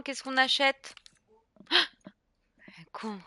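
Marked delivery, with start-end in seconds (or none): 1.7-3.2 slow whispered aside; whispering. Real, not acted. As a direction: whisper it slowly to yourself.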